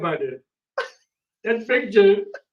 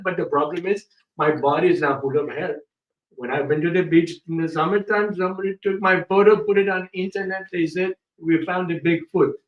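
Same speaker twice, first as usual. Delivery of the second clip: put-on a lightly held Indian accent telling a silly story; mock Indian accent. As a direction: keep the put-on Indian voice going, joking. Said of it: "He doesn't talk like this usually".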